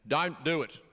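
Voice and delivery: lightly voiced old dad; retold elderly dad. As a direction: imitate an old father's warning, lightly. Retold elderly dad's warning.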